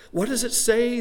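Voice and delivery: the devil leaning in, curious; devil inquiring. A narrator's reading. Storyteller voicing the devil asking God, curious and high. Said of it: "the devil inquired".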